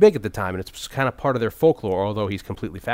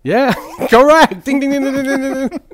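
game show host; 14 semitones higher, 9 dB louder than usual. Pretend. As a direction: ring in the answer like a quiz host.

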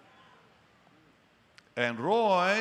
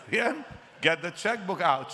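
urgent command; 4 semitones higher than usual. Retold or imitated. Ordering secretary urgently.

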